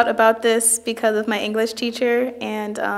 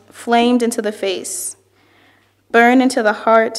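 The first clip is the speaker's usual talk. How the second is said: measured, evenly phrased poetry reading; poem reading; 3 dB louder than usual. Acted. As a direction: read it as verse, phrase by phrase. Reads another poet's poem aloud.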